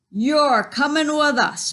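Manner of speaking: hammed-up pirate command; Braidbeard. A narrator's reading. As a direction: tell the boy firmly he's coming. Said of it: "Braidbeard told me".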